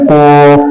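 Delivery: कोफ with rounded lips, an o vowel; wrong rounded kaf. Shown as a demonstration. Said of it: "गोल भी नहीं करेंगे".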